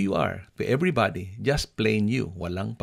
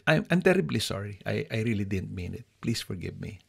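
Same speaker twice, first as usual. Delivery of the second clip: sincere apology. Shown as a demonstration. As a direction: start earnest then let it drop to a plea. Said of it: "Ayan, ang sincere".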